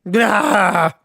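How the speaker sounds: loud high monster cry; monster blurt. Acted. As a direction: blurt it out like a beast. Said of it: "What does it sound like, Bob?".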